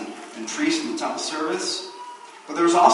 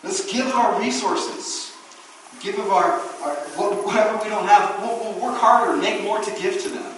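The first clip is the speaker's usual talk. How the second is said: higher, lightly voiced gentle refusal; mildly acted Paul waving off the gift; preacher acting Paul turning down the poor believers; Paul refusing; 5 semitones higher than usual. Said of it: "Paul's like".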